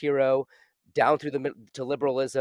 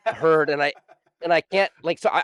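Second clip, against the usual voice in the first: laughing; 3 semitones higher, 6 dB louder than usual. Real, not acted. Gushing about the book's narrator.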